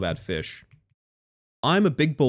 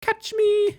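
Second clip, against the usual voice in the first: excited shout; 4 dB louder than usual. Real, not acted. Shouting at the game.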